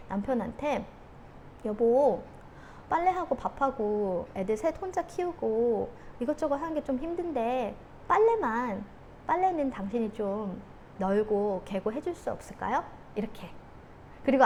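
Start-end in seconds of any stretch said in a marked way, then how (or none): 1.6-12.8 gentle request. Acted. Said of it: "이렇게 이야기를 했었어야 됐어요".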